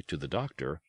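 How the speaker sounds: plain reading voice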